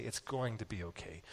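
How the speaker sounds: calm, quiet, sure reassurance; confident comfort. Shown as a demonstration. Pastor showing how to tell a hurting son, quiet confidence. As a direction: settle it softly and surely. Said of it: "look at him with confidence and say".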